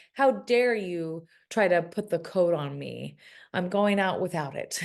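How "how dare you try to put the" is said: ordinary delivery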